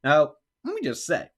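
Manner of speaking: very high, loud indignant yell; incredulous high-pitched shout; retold yelling. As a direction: imitate an outraged man shouting. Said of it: "And he's yelling".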